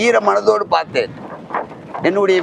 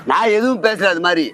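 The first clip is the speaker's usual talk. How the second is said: getting tense; 4 semitones higher than usual. Real, not acted. Accused of slander by the interviewer, a heated indignant denial. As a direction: push back hard, irritated at the accusation. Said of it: "ஏன் sir tension ஆவறீங்க?".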